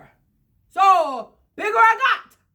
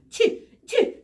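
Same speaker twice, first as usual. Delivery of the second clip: acted sneeze; 5 semitones higher than usual. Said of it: "He sneezed".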